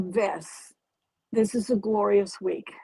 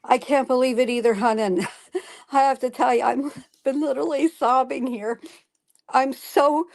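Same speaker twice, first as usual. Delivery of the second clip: fast, louder, bursting with joy; real excitement; 2 semitones higher, 4 dB louder than usual. Real, not acted. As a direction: gush with disbelief and a laugh. Overjoyed friend reacts to win.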